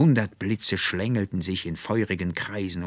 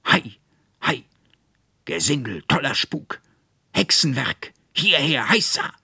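loud, rising battle cry, higher to the end; triumphant shout; 7 semitones higher, 6 dB louder than usual. A narrator's reading. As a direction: roar him into the fight. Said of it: "So schrie er". (lauter, triumphierender Schlachtruf, immer höher)

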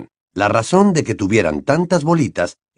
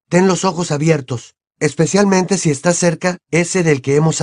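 reading a letter aloud, slightly higher voice; lectura de carta en voz alta; 4 semitones higher than usual. A narrator's reading. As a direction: read the letter out evenly, a bit raised in pitch. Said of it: "leyó en voz alta". (leyendo una carta en voz alta, algo más agudo)

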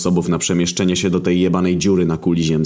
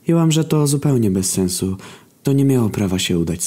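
muffled, higher phone voice; 3 semitones higher than usual. Acted. Agata on speakerphone, muffled phone voice. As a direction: sound distant, through a speaker. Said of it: "usłyszeliśmy stłumiony głos Agaty".

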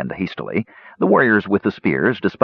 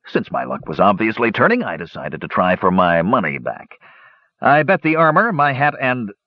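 lightly voiced dwarf, pitch often lifted; a hint of an eager storytelling dwarf; talkative dwarf gambler; 3 semitones higher than usual. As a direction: spin the gambling yarn as a dwarf. Dwarf confesses next bet.

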